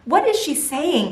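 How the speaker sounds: hushed baffled question to husband; puzzled whisper-ish question. Retold or imitated. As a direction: ask the husband under her breath. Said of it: "I turn to Charlie".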